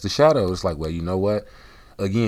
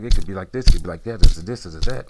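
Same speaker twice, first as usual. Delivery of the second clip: hyped self-talk; 10 dB louder, faster than usual. Retold or imitated. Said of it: "and I'm like".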